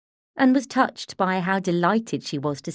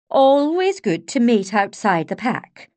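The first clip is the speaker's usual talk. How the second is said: brisk eccentric lady; 4 semitones higher, 6 dB louder than usual. A narrator's reading. Joan blunt remark.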